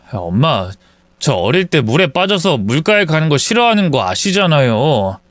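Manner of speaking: a hint of a meek adult son. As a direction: explain yourself to your mother, sheepish. Same narrator voices timid son.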